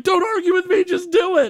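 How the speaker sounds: high imitated Burns, insistent; mock tyrant boss. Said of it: "He's like".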